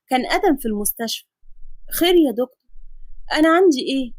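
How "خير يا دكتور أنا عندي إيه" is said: worried patient. Acted. Patient asking the doctor her diagnosis, lightly anxious woman's voice. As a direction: ask the doctor what's wrong, worried.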